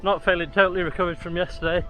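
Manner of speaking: talking mid-run, steady stride; while jogging. Real, not acted. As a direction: speak while jogging along. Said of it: "going along pretty nicely now".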